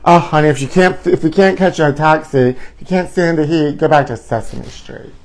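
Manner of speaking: sing-song sassy put-down; sassy rhyme. Pretend. Vlogger sassing the celebrity, a sing-song taunt. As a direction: deliver it like a diva's comeback. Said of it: "Do I tell Michelle".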